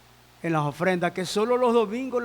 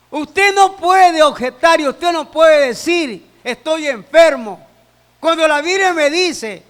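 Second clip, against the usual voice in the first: louder, emphatic sermon delivery; forceful preaching; 7 semitones higher, 8 dB louder than usual. Acted. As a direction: preach it out to the congregation.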